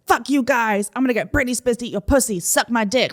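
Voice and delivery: lightly hammed-up aggression; angry rant, retold. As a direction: imitate a belligerent customer sounding off. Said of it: "they're getting angry".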